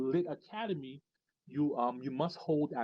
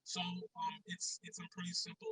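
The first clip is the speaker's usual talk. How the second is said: echoing voice from a cave; distant, echoey and boomy; 9 dB quieter than usual. Real, not acted. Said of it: "you sound like an echo right now".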